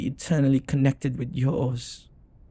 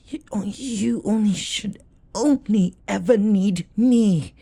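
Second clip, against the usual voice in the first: rising higher and louder on "me"; possessive insistence; 8 semitones higher, 4 dB louder than usual. Acted. Demon to his summoner, rising possessive insistence. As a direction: pushes harder and higher, claiming the summoner.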